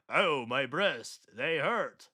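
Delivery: slow, drawn-out mock lament; drawled fake hurt; mock victim. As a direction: stretch out a hammed-up moan. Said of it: "She went".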